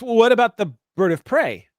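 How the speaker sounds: piping up high and loud; Rulon. Acted. Wingmate butting in on the comms, piping up high. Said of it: "pipes up and goes".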